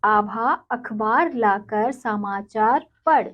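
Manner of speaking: clear, slow dictation of the sentence; slow careful reading. Shown as a demonstration. Teacher reading a sentence aloud to children. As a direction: read it out slowly for children. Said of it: "तो वाक्य है".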